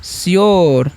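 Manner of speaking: श्योर said as "shyor", one slow falling syllable; teacher modelling श्योर for students; clear pronunciation. Shown as a demonstration. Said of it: "तो क्या हो गया?".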